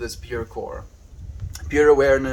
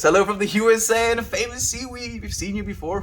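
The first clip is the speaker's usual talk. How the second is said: playful put-on voice; 9 semitones higher, 3 dB louder, faster than usual. Reading chat greeting in a voice.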